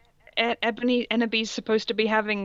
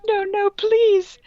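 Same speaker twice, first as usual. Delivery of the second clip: much higher, slow, whiny hammed-up plea; mock begging; 11 semitones higher, 5 dB louder, slower than usual. Reader voicing the heroine begging Voldemort, shrieking mock plea. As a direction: plead like a melodramatic damsel.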